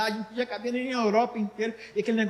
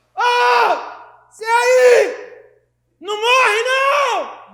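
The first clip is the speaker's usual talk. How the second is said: booming, very loud, very slow, very high, drawn-out shout; 13 semitones higher, 12 dB louder than usual. Retelling how a man shouted from the back: retelling a shout. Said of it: "Acho que ele gritou assim".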